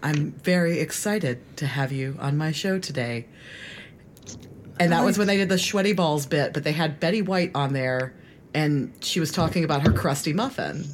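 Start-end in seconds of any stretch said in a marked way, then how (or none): 0.0-3.3 put-on deadpan radio-host voice, slower. Recalling an old SNL radio talk show sketch, imitating Anna Gasteyer and Molly Shannon deadpan. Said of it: "they were like really deadpan".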